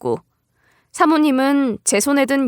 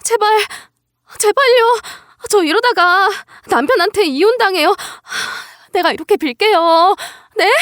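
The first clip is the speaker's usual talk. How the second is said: very high, gasping, desperate plea; frantic begging; 9 semitones higher, 3 dB louder than usual. Acted. Boss's wife kneels begging, fearing divorce, frantic pleading. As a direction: beg for your life, voice pitched way up. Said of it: "싹싹 빌며 이런 말까지 해줬어요".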